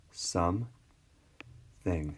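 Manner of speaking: SOME and THING said apart with a long pause; syllable by syllable. Shown as a demonstration. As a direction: split it into "some", then "thing". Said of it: "syllables are these little lines".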